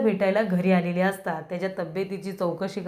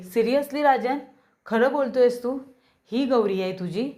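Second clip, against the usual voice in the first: shocked disbelief; 4 semitones higher than usual. Retold or imitated. Nayantara shocked by revelation.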